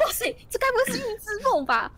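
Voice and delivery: amazed frog. Acted. Frog amazed meeting beggar again.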